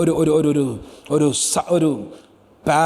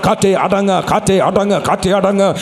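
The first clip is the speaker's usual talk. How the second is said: loud proclamation. Shown as a demonstration. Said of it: "ശബ്ദമുയർത്തി ചില വാക്കുകൾ പറയട്ടെ".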